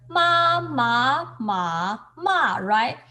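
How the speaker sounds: the four tones of ma shown one by one; tone demo. Shown as a demonstration. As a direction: sing each tone of ma clearly. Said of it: "the pronunciation".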